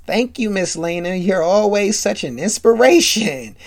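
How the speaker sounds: mock-grateful, sarcastic thanks. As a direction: deliver the compliment with understated sarcasm. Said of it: "Whitley sarcastically says".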